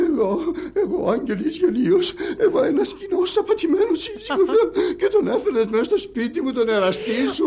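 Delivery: high-pitched wounded wail; hysterical self-pity. Acted. Cheated husband accusing wife, hysterical self-pity. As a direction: lament the humiliation in comic hysterics.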